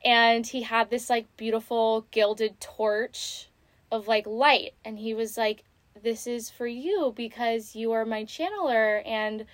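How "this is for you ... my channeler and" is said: softly voiced fond father; gently, a hint of fatherly warmth; fatherly tenderness. Spirit guide to his channeler, mildly tender and fatherly. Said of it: "talked to me like I was his daughter".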